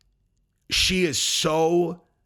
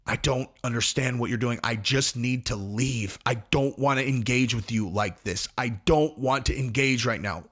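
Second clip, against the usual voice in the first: completely calm; 3 semitones lower than usual. Retold or imitated. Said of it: "he is completely calm, completely sober".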